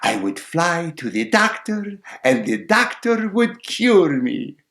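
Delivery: high, slow sparrow; confident sparrow. Acted. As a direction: answer brightly as the little bird. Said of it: "said the sparrow".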